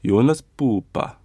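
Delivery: slow Jonas Pupa; careful slow name. Shown as a demonstration. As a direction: say Jonas Pupa slowly, stress on Pu. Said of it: "Okay, thank you".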